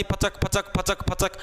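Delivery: rapid, repeated mock gunfire noises; imitated gunshots. Teacher retelling the DC ordering a shooting, imitated gunfire. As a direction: mimic shots going off one after another. गोली चलवा दी.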